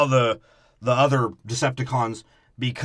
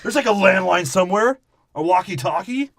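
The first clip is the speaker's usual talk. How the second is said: much higher, louder dumb-guy voice; mocking dopey officials; 10 semitones higher, 4 dB louder than usual. Host mocks the movie's officials, high dopey voice. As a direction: play them as clueless bros, pitched way up.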